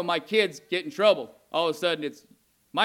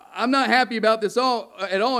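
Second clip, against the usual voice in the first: louder and higher, indignant declaration; mad God; 5 semitones higher, 5 dB louder than usual. Retold or imitated. God warning his disobedient people, angry and raised. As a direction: let the anger build as the voice of God. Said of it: "how mad he is".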